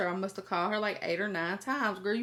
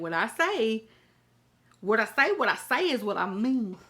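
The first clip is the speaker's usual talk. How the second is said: laying down the law; 5 dB louder than usual. Retold or imitated.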